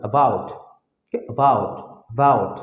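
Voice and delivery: "about" with a short, unstressed first "a"; short opening vowel. Shown as a demonstration. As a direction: keep the "a" of "about" short and separate. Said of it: "short আয়ের মধ্যে হবে".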